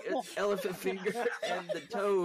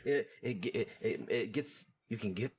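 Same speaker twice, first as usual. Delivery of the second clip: snarling punk. Acted. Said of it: "You look like a thirty-year-old".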